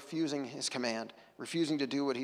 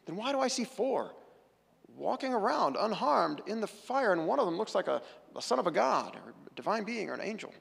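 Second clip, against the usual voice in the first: higher, wondering king's question; amazed king; 5 semitones higher than usual. Acted. Preacher voicing the amazed king seeing four in the fire. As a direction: stare into the fire in disbelief. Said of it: "King Nebuchadnezzar jumps up and says".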